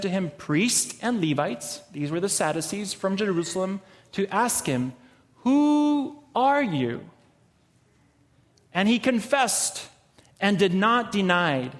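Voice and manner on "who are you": demanding questioner. Acted. Priests questioning John the Baptist.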